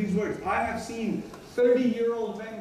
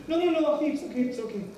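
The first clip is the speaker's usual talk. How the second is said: insistent denial; 4 semitones higher, faster than usual. Acted. Acts out denying being upset.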